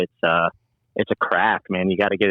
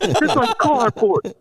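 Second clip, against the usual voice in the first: much higher and slow, mock-disgusted owner; Guido guy; much slower than usual. Owner mocks chain pizza: slow, high Guido voice. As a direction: drag it out like a scornful Guido pizza man. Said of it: "he started getting all".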